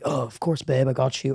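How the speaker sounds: lightly voiced protective cop; cop as boyfriend.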